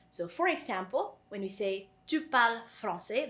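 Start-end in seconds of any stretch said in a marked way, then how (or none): 2.1-3.3 "Tu parles français" said as a statement; declarative intonation. Shown as a demonstration. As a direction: say "Tu parles français" as a plain declarative sentence, not a question. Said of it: "that's a declarative sentence".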